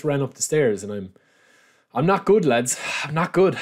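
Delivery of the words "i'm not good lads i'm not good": puffing after running upstairs; short of breath, winded. Real, not acted. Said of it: "I'm a bit out of breath".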